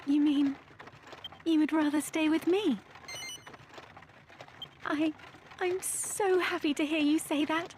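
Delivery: rising, a little breathless with joy; touched and happy. Acted. Princess overjoyed her captain stays. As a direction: let the happiness catch you off guard. Princess moved by his choice.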